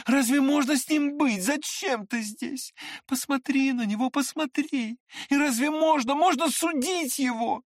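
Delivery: high, pained pleading; anguished exclaiming. A narrator's reading. Liza pleads for the sick prince, anguished. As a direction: plead in grief and pity. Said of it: "восклицая".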